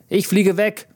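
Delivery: put-on high, crowing child's voice in the wind; crowing little girl. Dad retelling daughter at open car window, crowing high. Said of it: "Töchterchen Jette krähte".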